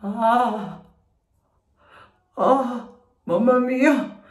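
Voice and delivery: cold mask shock, shivering; teeth chattering. Real, not acted. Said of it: "Sembro la donna delle nevi".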